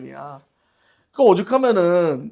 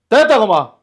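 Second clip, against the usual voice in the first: gruff father; 7 semitones higher, 10 dB louder than usual. Retold or imitated. Voices father dismissing child.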